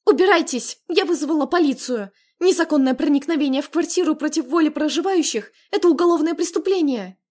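high, loud shout through the door. Acted. Sister shouting at the intruders through the door, loud. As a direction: yell at them to get out. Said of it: "крикнула".

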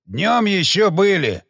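slow, grumpy growl; angry grumble. Acted. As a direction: grumble it out slowly, annoyed. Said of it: "зло проворчал бородач". (злое медленное ворчание)

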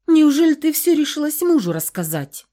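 grandma startled by the news; a touch of alarm in an old voice; alarmed old woman. A narrator's reading. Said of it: "встревожилась женщина".

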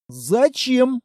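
surprised why. A narrator's reading. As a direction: genuinely caught off guard. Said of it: "удивился Текс".

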